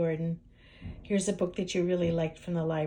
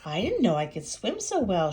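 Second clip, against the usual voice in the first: proud; 4 dB louder than usual. Acted. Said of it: "she clucked proudly".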